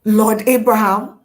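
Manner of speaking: loud, appalled disbelief; dramatic incredulous outcry; acted shock. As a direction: protest in stunned disbelief, playing it up. Acting Hagar's shock at news.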